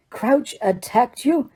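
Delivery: slow, high, incredulous; can't believe what he hears; disbelief. Acted. Karkaroff hearing Crouch attacked his student, disbelieving.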